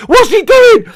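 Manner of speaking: very high, loud, outraged; incredulous shout. Real, not acted. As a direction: fan shouting at his player for the handball, incredulous. Fan raging at handball.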